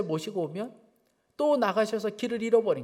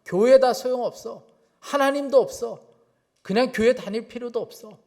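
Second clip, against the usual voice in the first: mild mock yell, raised and louder; retold yelling; 4 semitones higher, 6 dB louder than usual. Distraught mother yelling at her son beside her, retold shout. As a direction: imitate a distraught mother's outburst, restrained. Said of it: "막 소리를 지르는 거예요".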